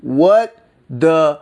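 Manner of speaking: high, loud mock cry of hello; frantic squeal for attention; mock alarmed. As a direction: yelp it way up, half-crying. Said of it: "constantly having to be like".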